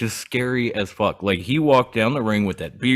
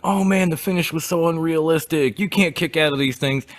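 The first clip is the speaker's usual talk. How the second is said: higher-pitched mock grumbling of fans; complaining fans; 6 semitones higher than usual. Quoting people who complained about the match, mocking complaint. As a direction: imitate whiny complainers without raising the volume. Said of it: "You remember hearing those people when".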